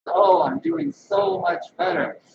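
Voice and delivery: high, loud imitation of a Southern woman; upbeat Southern accent, pitched well up. Woman greeted at the grocery store replies, in an imitated Southern accent. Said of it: "she talks like this, like Southern people talk".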